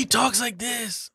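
put-on high, slow New Zealand accent. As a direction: drag it out in a Kiwi accent. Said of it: "I can't do that New Zealand accent".

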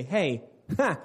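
laughing mock accusation; mock confrontation, laughing. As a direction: play the wrong way to say it, half-joking. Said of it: "I'm not saying go to them and say".

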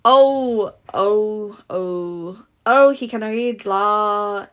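put-on southern accent drifting into Irish, slowly; a bungled Southern drawl that turns Irish; attempted southern accent slipping Irish. Reading Scarlett's line, accent slipping to Irish. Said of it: "s-, Irish".

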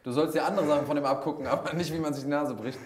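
laughing. Real, not acted. Joking about copying a nosebreak.

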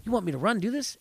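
playing Jordan, high and disbelieving; quoting Jordan. Host retelling Jordan's reaction, high incredulous voice. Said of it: "he's like".

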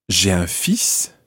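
slightly slow, joined up; connected speech demo; run together. Shown as a demonstration. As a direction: glide "j'ai un fils" into two syllables. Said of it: "almost sounds just like two syllables".

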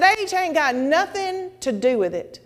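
high, slow, emphatic quote; pastor's declaration. Retold or imitated. Pastor freeing her from age worry, emphatic declaration. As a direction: drive each word home. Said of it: "He said".

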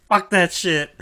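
high, sharp angry outburst; angry Moria. Acted. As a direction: spit it out, instantly furious. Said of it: "Moria just gets instantly angry".

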